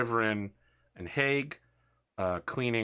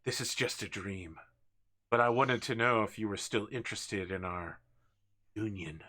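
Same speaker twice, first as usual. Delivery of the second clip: soft, halting words after exertion; understated winded murmur, trailing quieter; catching his breath; 3 semitones lower, 4 dB quieter than usual. Acted. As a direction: speak softly, pausing to recover breath. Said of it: "trying to catch his breath".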